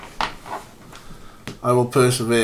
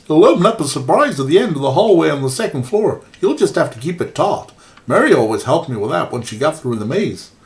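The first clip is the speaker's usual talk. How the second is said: put-on Canadian accent. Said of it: "I'm trying to do a very bad Canadian accent".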